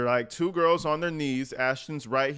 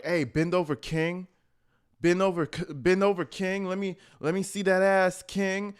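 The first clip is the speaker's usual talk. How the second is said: mock come-on in a raised pitch; a rapper/public; 6 semitones higher than usual. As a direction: play a pushy host coaxing a guest, higher-pitched. Acting out a rapper urging a guest.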